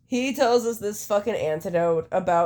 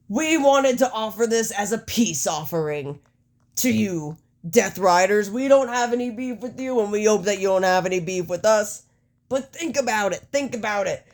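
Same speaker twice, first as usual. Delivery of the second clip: slightly raised, declaiming promo voice; Matt Jackson; 4 semitones higher than usual. Acted. Wrestler offers peace to rivals, terrible Matt Jackson impersonation. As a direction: deliver a hammed-up wrestling speech, phrase by phrase. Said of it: "It's a terrible fucking Matt Jackson impersonation".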